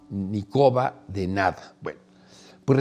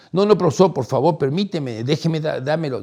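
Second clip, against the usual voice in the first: pleading insistence; 4 semitones higher than usual. Retold or imitated. Young man insists on carrying.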